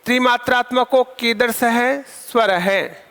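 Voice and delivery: slow, careful dictation for students. Shown as a demonstration. Teacher repeats the question slowly for students. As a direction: spell it out slowly for the class to write. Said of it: "दोबारा से आप समझ लीजिए".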